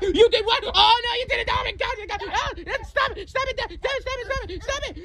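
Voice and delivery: high mock scolding of dad; hammed-up parent telling off. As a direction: play the angry dad lightly. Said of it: "I broke my dad's favorite cup".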